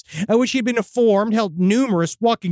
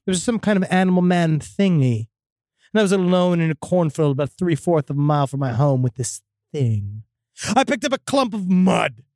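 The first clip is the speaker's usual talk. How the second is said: spooky story reading. A narrator's reading. Host reads a listener's demon encounter, spooky story reading. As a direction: read out an eerie first-person account.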